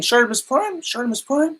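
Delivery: a hint of a child calling out; kid calling out. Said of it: "I could hear a kid saying".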